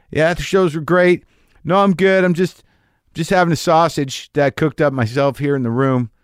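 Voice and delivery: lightly acted "I'm fine" phone voice; acted phone reassurance. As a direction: reassure a girlfriend on a late call. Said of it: "me calling my girlfriend".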